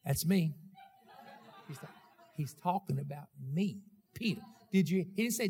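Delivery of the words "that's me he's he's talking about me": proud chuckle. Acted. Peter proud, laughing.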